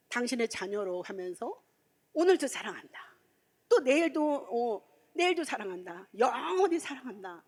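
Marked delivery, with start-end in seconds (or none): 2.1-3.1 God's loving voice. Retold or imitated. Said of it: "막 이렇게 그렇게 얘기를 하시는". 3.7-7.4 God's loving voice. Retold or imitated. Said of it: "막 이렇게 그렇게 얘기를 하시는".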